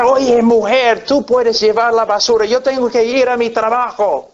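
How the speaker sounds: mock angry yell. Preacher acting a late husband yelling at his wife, mock yell. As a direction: snap at her like a rushed husband, played for the sermon. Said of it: "comienza a gritar".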